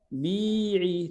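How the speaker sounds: بيعي with the first ee stretched out; long vowel on بيعي. Shown as a demonstration. Teacher models the verb command, long vowel in بيعي. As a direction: draw out the ee in بيعي. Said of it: "ليش بيعي؟".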